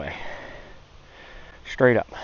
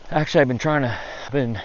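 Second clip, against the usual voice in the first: breathless, words cut short; gasping mid-sentence after the climb; out of breath; 3 semitones higher than usual. Real, not acted. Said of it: "wow, I'm out of breath".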